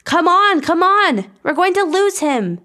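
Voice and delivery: put-on very high, urgent girl's voice; fretting in a high-pitched character voice; Amy, anxious. A narrator's reading. Amy afraid of losing Alex, high anxious voice. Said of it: "said Amy anxiously".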